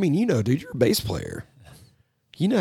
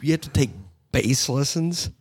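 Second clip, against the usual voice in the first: incredulous rant; 6 semitones higher than usual. Retold or imitated. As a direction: rant at him in disbelief. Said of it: "I'm like".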